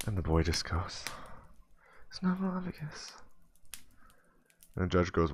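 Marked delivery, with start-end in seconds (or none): 2.1-3.1 put-on mumbled kid word. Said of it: "I didn't hear you".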